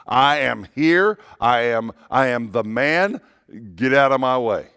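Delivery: strut like the lion claiming ground; lion's roar boast. Retold or imitated. Voicing the roaring lion.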